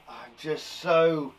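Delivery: slow build-up of pretend anger; mock exasperation. Shown as a demonstration. Teacher lost for angry words, mock exasperated. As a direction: stretch it out, mock frustrated.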